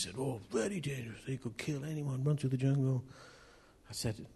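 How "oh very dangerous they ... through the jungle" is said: lightly attempted Indian accent. Preacher quoting his friend on dangerous elephants, light Indian accent. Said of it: "is this an Indian accent?".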